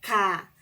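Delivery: the hard K sound of C. Shown as a demonstration. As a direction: say K, hard and loud. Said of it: "faz som de".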